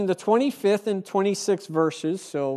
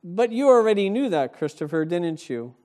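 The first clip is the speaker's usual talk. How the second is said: firm answer; 4 semitones higher, 6 dB louder than usual. Retold or imitated. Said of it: "He says to Hitchens".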